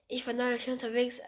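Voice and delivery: quick, hurried first line; too quick to follow. Shown as a demonstration. Singer rushing into a TikTok song, too quick. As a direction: rattle the line off. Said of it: "Halt, kannst du mal langsamer?".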